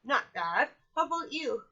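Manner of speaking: lightly voiced parrot copying a father; a hint of the dad through the bird; parrot doing dad. Parrot imitating the dad's reply, lightly voiced. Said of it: "in my dad's voice".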